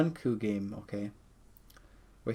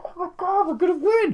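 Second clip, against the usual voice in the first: much higher, louder cry of joy; excited cheer; 6 dB louder than usual. Retold or imitated. Fan sure his team will win, much higher excited cheer. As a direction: celebrate like the win is certain. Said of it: "and I was like".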